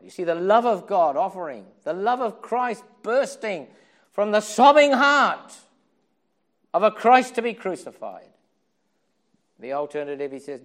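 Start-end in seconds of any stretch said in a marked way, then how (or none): 0.0-8.3 loud, higher, impassioned; fiery pulpit climax; preaching at full force. Real, not acted. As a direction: build it to a ringing peak.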